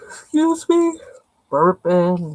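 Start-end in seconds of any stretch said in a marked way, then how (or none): 0.1-1.0 high pitch through a yawn. Real, not acted.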